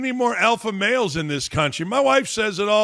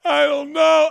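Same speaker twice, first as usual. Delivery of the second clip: higher, whining mock of a crying player; mocking whiny quarterback; 5 semitones higher than usual. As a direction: sneer as you quote his sob story. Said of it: "talking about".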